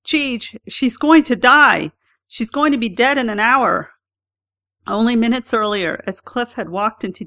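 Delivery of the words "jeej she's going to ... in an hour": panicked. A narrator's reading. Panicked friend on the phone.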